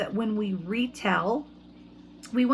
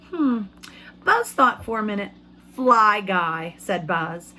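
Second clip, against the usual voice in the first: put-on reading to children. Teacher reads picture book aloud.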